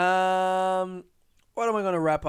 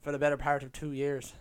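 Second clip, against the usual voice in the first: half-hearted stab at Irish; failed Irish accent. Shown as a demonstration. Podcaster giving the accent one last try, failed Irish accent. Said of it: "I can't do it now".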